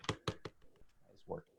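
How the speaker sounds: slow, whispered aside to herself. Real, not acted. Artist testing a marker, whispering to herself. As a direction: breathe the words out as the marker starts.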